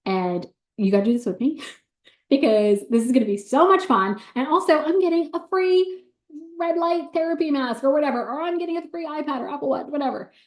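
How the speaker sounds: bubbly high-pitched pitch to a friend; gushing text message, high. Retold or imitated. Seller gushing to her best friend, high and excited. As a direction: squeal it like an excited invite. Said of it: "send your cart to those people".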